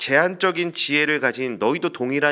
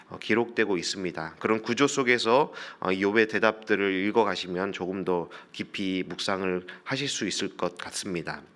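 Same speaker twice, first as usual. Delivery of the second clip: ordinary talk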